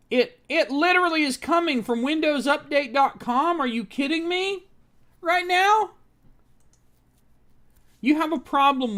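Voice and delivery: high, disbelieving protest; can't believe the warning; incredulous outrage. Real, not acted.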